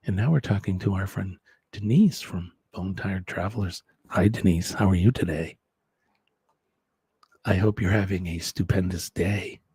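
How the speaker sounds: lightly voiced low, smooth NPR host; mock a sedate public-radio interviewer. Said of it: "We'll be the N P R hosts".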